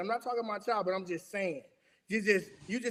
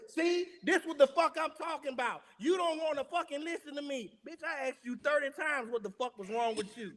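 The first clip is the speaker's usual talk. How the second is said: higher-pitched mock rant, not shouted; imitated exasperated partner; 5 semitones higher than usual. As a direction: act out a fed-up partner's complaint without raising volume. Voices fed-up partner turning on them.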